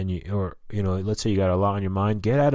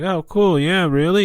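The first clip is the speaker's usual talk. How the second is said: higher, louder mock-excited tourist; fake tourist enthusiasm; 10 semitones higher, 7 dB louder, slower than usual. Narrator fooling the waiter, pretending to be a tourist, mock-excited. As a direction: play the eager out-of-towner. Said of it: "I was like".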